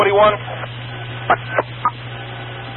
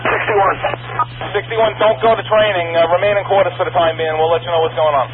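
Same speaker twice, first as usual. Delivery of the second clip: urgent firefighter radio. Real, not acted. Radio calls to squads.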